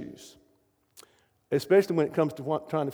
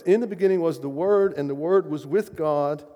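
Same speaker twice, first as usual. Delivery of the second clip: proclaimed reading; 4 dB louder than usual. Shown as a demonstration. Preacher proclaims the opening verse to the congregation, louder. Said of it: "Very first verse".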